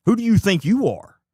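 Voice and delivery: from firm to a loud high outburst; building outrage. Real, not acted. Commentator fuming at the mayor, rising angry outburst.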